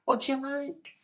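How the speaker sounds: high, held-up presenter voice; high-pitched host impression; imitated TV presenter. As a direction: mimic her question way up high. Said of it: "it says".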